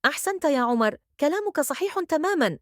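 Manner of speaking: lightly acted approving teacher; smiling praise. A narrator's reading. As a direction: praise the pupil with a lift in pitch. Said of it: "ابتسمت المعلمة وقالت".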